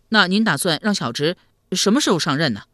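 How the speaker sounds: lightly voiced boyish lad; a touch of naive youngster; curious young nephew. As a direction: ask with a hint of youthful eagerness.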